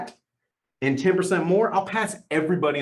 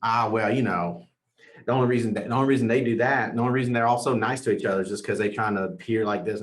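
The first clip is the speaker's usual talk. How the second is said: mock dismissive excuse; 4 semitones lower, faster than usual. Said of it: "You'll be like".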